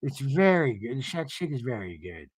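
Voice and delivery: low, understated woman's impression; lightly imitated, subdued reply; Meredith imitation. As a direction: keep it low and soft, underplayed. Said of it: "Meredith's like".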